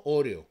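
OREO stressed on the first O; pronunciación venezolana. Shown as a demonstration. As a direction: say Oreo as "Ó-rio". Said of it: "Nosotros decimos Oreo". (Oreo como esdrújula, «Óreo»)

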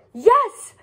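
high, loud joyful yes; excited cry. A narrator's reading. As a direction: burst out with glee. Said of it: "cried her friends".

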